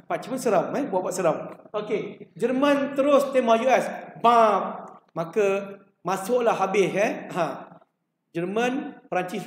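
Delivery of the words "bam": spoken "bam" as a shot; imitated gunshot. Germany fires on the US, imitated bang. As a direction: drop in a punchy bang.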